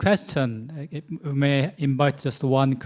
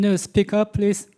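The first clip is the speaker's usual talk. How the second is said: raised voice, higher and louder; to someone hard of hearing; 7 semitones higher, 5 dB louder than usual. Real, not acted. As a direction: speak up over a bad line. Can't hear the other side.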